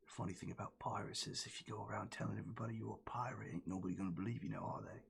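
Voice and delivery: quick whisper, leaning in; conspiratorial whisper. Acted. The captain leans in and whispers a pirate secret to the party. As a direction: whisper the secret fast and slyly.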